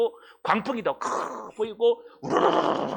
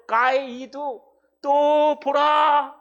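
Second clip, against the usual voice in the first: exclaimed behold; 6 semitones higher, 5 dB louder, much slower than usual. Acted. Exclaiming the Greek.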